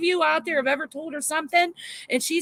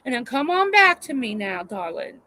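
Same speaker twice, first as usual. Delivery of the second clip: mock scolding mama; 3 semitones higher, 3 dB louder than usual. Mock scolding a crying viewer.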